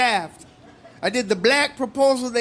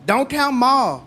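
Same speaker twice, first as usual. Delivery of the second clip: redneck proposal impression; 3 semitones higher, slower than usual. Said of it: "This is my impression of a redneck proposal".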